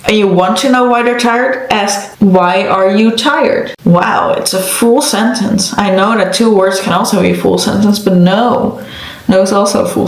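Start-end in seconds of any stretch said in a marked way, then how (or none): 2.2-3.7 slow, deliberate question, word by word; pointed slow demonstration. Shown as a demonstration. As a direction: spell the question out slowly. Spelling out the proper full question.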